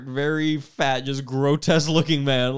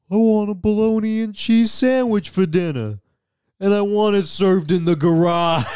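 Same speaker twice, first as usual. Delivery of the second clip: louder, higher blustering man; Jackie Vernon; 5 semitones higher, 5 dB louder than usual. Retold or imitated. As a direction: bark it like a pompous slob. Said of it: "I'm gonna be both of them".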